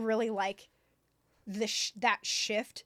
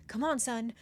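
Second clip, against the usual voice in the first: mock urging; 4 semitones higher, 8 dB louder than usual. Father pushing his son to marry, mock exasperated. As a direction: build to a loud, impatient push.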